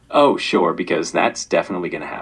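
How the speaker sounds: low, sardonic, sarcastic, mocking disbelief. Demonstrating a range of emotional tones on request, sarcastic. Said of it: "And then sarcastic".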